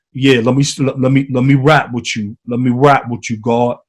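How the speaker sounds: A rapper impression. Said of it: "And you know the rapper".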